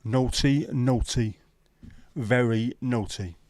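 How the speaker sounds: loud teasing telling-off, very naughty dragged slow; hammed-up naughty-naughty scold; mock scolding. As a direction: wag a finger with a grin. Mock scolding a chat joke.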